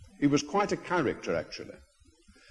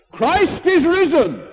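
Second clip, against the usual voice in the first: high, slow, full-voiced shout; barber's ringing cry of Christ is risen; shouted Easter greeting; 14 semitones higher, 9 dB louder, slower than usual. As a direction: cry it out to the whole barber shop. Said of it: "at the top of his voice shouted".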